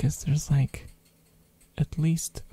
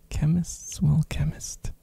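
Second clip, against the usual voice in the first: laughing whisper. Real, not acted. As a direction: whisper through a chuckle. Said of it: "repeated with laugh".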